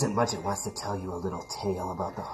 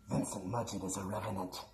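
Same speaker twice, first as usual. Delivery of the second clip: horror trailer voice; 3 dB quieter than usual. A narrator's reading. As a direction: warn the children in a creepy hush. Spooky warning to boys and girls.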